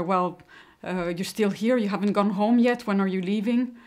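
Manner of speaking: lightly acted office teasing; mock joking colleagues. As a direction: imitate colleagues needling her with rising questions. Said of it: "her colleagues started joking".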